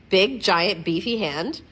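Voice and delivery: loud, punchy opening on "Big, giant"; mock-monster emphasis. Vlogger showing off her gigantic-looking hand, big punchy voice. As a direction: make "Big, giant, beefy hand" sound huge. Contrasts hand close and far.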